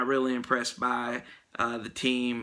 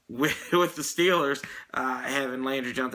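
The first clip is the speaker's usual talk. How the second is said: put-on British accent. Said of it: "I'm going to try this in my British accent".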